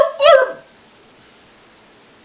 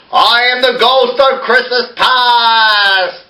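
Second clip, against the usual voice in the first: booming ghost; 7 semitones higher than usual. Pretend. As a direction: boom it out like a ghost. Ghost of Christmas past bit.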